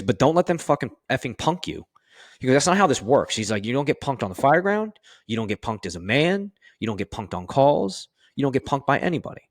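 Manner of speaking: a hint of a stern fire officer driving the point home; retold lieutenant's lecture. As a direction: lay down the law like a tough lieutenant, half-acted.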